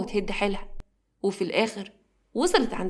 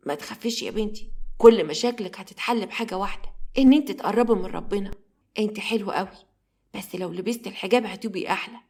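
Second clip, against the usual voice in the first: gentle comfort. Acted. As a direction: soothe her like a grandmother would. Nanny comforting the girl.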